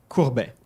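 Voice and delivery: "Courbet" as "koor-BEH", French r, falling; French pronunciation demo. Shown as a demonstration. Teacher repeating the ship's name for viewers, French pronunciation of "Courbet". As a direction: model "Courbet" cleanly in French. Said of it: "That's this one".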